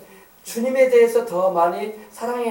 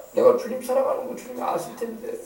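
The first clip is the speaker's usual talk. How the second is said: mildly tearful confession, fading softer; 5 dB quieter than usual. Acted. Peter confessing to the Lord he cannot change, tearful. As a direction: trail away as if a little choked up. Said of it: "베드로가 막 울먹였던 거야".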